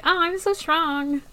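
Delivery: mocking mimicry. Subaru mimicking Priscilla after her boast, mocking girl voice. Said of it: "like, mimics her".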